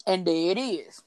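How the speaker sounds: talking through a cracker; words around a mouthful of cracker; mouth full. Real, not acted. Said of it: "Excuse my cracker in my mouth".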